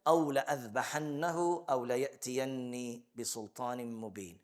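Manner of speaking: fast melodic chant, fading at the end; Quranic recitation. Acted. Teacher recites Sulaiman's threat from the verse, melodic chant. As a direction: recite the verse in one flowing breath. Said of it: "he said".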